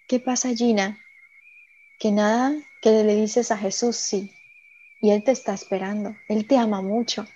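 softly imitating a kindly priest; retold in a soft, tender voice; gentle reassurance. Retells the priest gently reassuring her.

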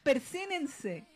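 passive-aggressive sign-off, drawn out; slow, mock passive-aggressive dismissal; Neki. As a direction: stretch it out with pointed restraint. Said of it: "ese es su pasivo agresivo".

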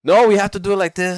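mock thick Asian accent. Caller mocks stubborn support agent, thick Asian accent. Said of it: "Asians with a thick accent".

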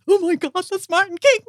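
high, thrilled starstruck gasp; excited fan squeal. Retold or imitated. Fan spotting a celebrity, high excited squeal. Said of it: "And she's like".

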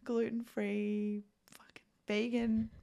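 high mock voice for a fussy diner, the middle whispered. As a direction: sneer out the order as an awkward fussy customer, high and breathy. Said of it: "I hate to be that person that's just like".

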